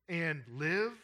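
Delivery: "and live" set apart, slow, ending on a rise; emphasized words. Real, not acted. Preacher stressing verse nine to the congregation, emphasized "and live". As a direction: lean on "and live" as a weighty question. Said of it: "notice I emphasize the words".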